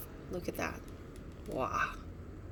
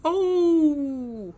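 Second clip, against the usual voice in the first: high, loud groan from the bush; a pained groan from hiding; groaning cry; 7 semitones higher, 10 dB louder than usual. A narrator's reading. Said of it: "shook the bush".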